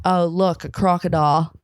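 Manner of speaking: lightly done Aussie accent; playful Australian wildlife-host accent. Shown as a demonstration. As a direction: echo it in a mock Australian accent. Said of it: "I'm good at an Australian accent".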